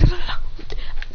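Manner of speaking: quick voiceless punching noises; attack sound effect. Acted. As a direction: imitate a flurry of punches with the mouth. Imitates blows while punching.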